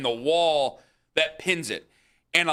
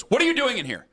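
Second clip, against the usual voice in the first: startled, indignant question pitched higher; mock outraged clerk; 10 semitones higher, faster than usual. Clerk catching the teen in the back room, high indignant. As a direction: catch the kid red-handed. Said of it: "and he goes".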